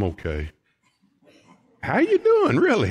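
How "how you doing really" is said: much higher, louder insistent how-are-you; eager, insistent greeting; pressing greeting. Acted. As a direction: push for a real answer.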